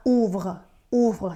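OUVRE modelled as 'oovr', ending unvoiced into a light r; pronunciation demo. Shown as a demonstration. Teacher showing learners this form sounds the same, pronunciation demo. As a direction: say OUVRE as 'oovr', each take set apart. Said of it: "ตัวนี้ก็จะออกเสียงว่า".

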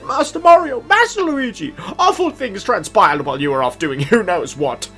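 put-on high quavering old servant; old man voice. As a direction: voice a fussy elderly steward. Voicing Toadsworth reading dialogue.

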